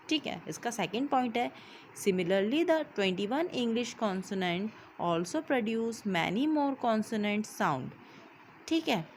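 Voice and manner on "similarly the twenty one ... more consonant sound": reads each English word out slowly and evenly; slow note dictation. Acted. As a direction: dictate the note so the class can copy it down. Reads English notes aloud slowly. (धीमे-धीमे notes लिखवाना)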